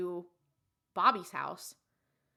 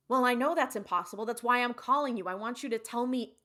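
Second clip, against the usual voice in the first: insistent, raised-pitch phone plea; exasperated caller, higher and louder; 3 semitones higher, 6 dB louder than usual. Retold or imitated. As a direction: argue urgently with the doctor, quickly. Arguing with doctor on phone.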